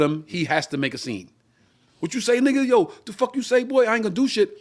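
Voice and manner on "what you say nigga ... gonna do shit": higher, mock-aggressive drunk challenge; hammed-up tough guy picking a fight; drunk threat. Drunk guy showing off for the girls, mock-angry challenge.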